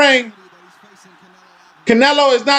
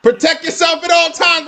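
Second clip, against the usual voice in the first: shouted; 3 semitones higher than usual. Retold or imitated. Echoing the referee's instructions.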